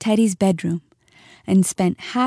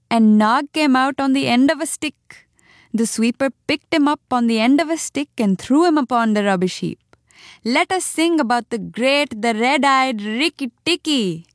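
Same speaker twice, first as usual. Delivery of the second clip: high, quick, chirpy tailorbird voice; a feather-brained bird bursting with gossip; excited little bird; 5 semitones higher than usual. Acted. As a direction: Darzee the tailorbird, giddy and high. Darzee gloats and praises.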